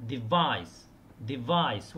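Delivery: device stressed on the second syllable, de-VICE. Shown as a demonstration. Teacher modelling de-VICE for students. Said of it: "والستريس يكون على الثاني".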